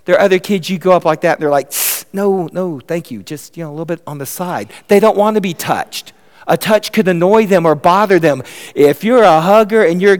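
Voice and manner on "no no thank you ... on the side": softly acted child backing off a hug; reluctant refusal. Child turning down a parent's hug, softly reluctant.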